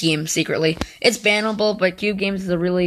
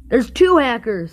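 panicking gamer; 4 semitones higher, 5 dB louder, slower than usual. Real, not acted. Second hacker appears mid-game.

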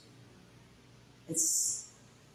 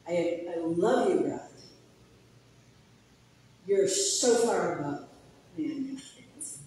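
tender prayer. Real, not acted. Prays to God out loud.

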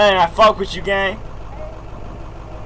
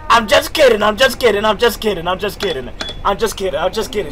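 hurried backtracking; 3 semitones lower than usual. Pretend. Backtracking after joke to passenger.

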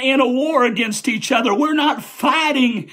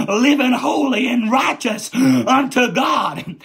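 full-force preaching; 2 semitones higher than usual. Acted. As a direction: preach it out, building to a shout. Preacher exhorting, building again.

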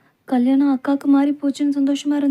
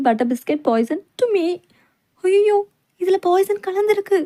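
drawn out; 4 semitones higher, slower than usual. Acted. Slow mocking sing-song.

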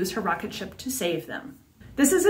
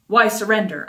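abruptly furious; 4 dB louder than usual. Acted. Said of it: "abruptly furious".

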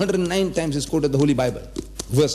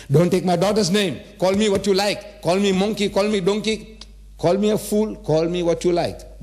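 high-pitched, insistent protest; heated protest; 6 semitones higher than usual. Acted. Young man defending his family's names to uncle, heated protest. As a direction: plead indignantly on a raised, sustained pitch. Acted plea against insulting family.

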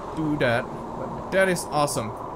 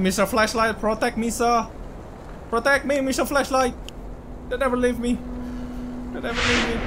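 mock pleading; 6 semitones higher than usual. Real, not acted. Begging the flashlight playfully.

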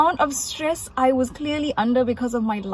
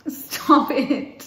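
whiny yowling cat; 10 semitones higher, much slower than usual. Real, not acted. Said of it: "You sound like yowling cat".

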